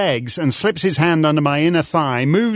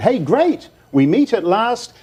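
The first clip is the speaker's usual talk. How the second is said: eager reply; 5 semitones higher than usual. Retold or imitated. Reads out own eager email reply.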